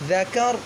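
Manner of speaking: ذکر with a thick full ر at the stop; ذکر with the final ر said thick; heavy ra. Shown as a demonstration. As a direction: end ذکر on a heavy rounded ra. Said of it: "را کو موٹا کریں گے وقف کی صورت میں".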